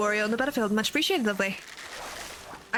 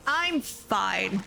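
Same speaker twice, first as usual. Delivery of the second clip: sarcastic fine; much slower than usual. Real, not acted. Sarcastic reassurance after game failure.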